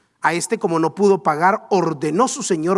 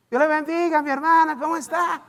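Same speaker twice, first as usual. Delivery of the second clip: sugary church greeting; 7 semitones higher, faster than usual. Retold or imitated. Cristiano saluda en vecindario.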